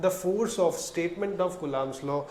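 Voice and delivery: very slow, each word apart; slow dictation. Shown as a demonstration. Teacher dictating so students can write it. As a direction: give it slowly to write down. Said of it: "अगर लिखना चाहो तो लिख सकते हो".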